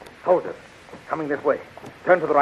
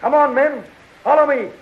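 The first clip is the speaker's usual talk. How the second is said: loud, high battle cry to the men; rallying shout; 10 semitones higher, 5 dB louder than usual. Acted. Hero rallying the enslaved men to revolt, loud shout. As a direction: call the men to follow, full voice.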